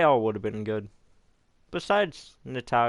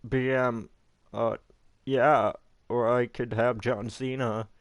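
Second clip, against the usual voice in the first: mocking imitation; 3 dB louder than usual. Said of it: "He is so bad at promoting. He's like".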